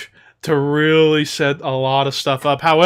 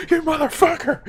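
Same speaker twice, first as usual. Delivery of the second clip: Austin voice; 13 semitones higher than usual. Retold or imitated. Voicing Austin.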